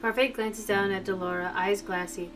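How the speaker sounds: soft, measured narrator reading; story narration. A narrator's reading. Reading a tense game scene aloud, story narration. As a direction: read the scene quietly and evenly.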